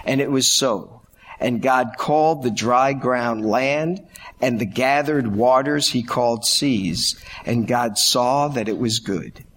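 booming biblical narration. Acted. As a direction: let each verse land, measured. Reads Genesis aloud.

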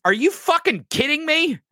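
mock aide soothing a tantrum, then exasperated; mock nervous aide. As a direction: coax him like a frightened butler. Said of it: "Walt Dean has to bring".

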